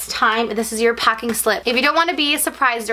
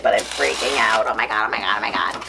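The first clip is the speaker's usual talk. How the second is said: outwardly contained freak-out; 12 semitones lower than usual. Real, not acted. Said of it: "I may not look like it".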